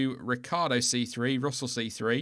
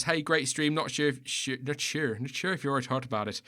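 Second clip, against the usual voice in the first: light Irish lilt reading out a viewer message; a mild put-on Irish accent, not overdone; understated Irish voice reading a fan's note. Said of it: "I was doing an Irish accent".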